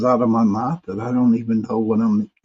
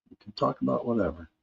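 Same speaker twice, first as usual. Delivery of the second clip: much softer and faster, tossed off; soft quick echo; 10 dB quieter, faster than usual. Shown as a demonstration. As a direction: repeat it under your breath as an aside. Quiet echo of own line.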